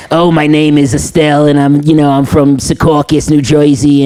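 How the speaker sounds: Italian Irish auntie voice. Pretend. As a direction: play a chatty Jersey auntie introducing herself, just a hint of it. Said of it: "And she talks like this".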